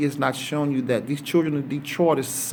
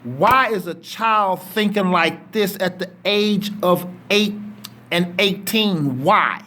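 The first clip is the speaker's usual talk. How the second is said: loud, higher, slow pleading that builds to breaking; getting emotional; 5 semitones higher, 5 dB louder, slower than usual. Real, not acted. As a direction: cry out the question as feeling overtakes you. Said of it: "I'm getting emotional".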